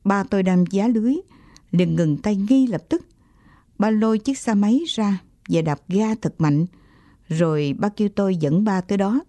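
ordinary delivery

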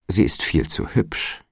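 hushed, half-breathed aside; hushed sly warning to the porter. A narrator's reading. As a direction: drop the voice as if sharing a secret. Alderman warns Toby about daughter.

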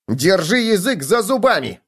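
high-pitched bedbug squeal. A narrator's reading. Bedbug silences the gopher, squealing. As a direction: order it in a high, agitated pitch. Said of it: "взвизгнул Клоп".

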